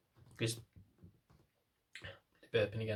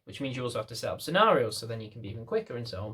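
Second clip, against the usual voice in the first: normal talking voice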